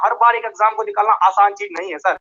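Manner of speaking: distant repeating echo on the line. Real, not acted. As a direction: voice bouncing back, faint and delayed. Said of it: "मेरी आवाज में इको है sir". (लाइन पर गूंजती हुई इको आवाज़)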